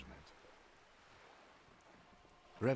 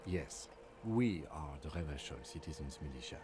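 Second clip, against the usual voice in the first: dry, mocking agreement; sarcastic. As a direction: say it with a deadpan sneer. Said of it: "He's being sarcastic".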